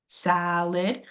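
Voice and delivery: salad, first syllable strong, ending a light schwa; stressed first syllable. Shown as a demonstration. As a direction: repeat salad with the weight on SA. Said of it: "that first A is stressed".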